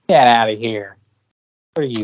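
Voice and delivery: lightly put-on rapper dismissal; a rapper's voice. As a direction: wave them off in a mock rapper voice. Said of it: "use my Shaggy Two Dope voice".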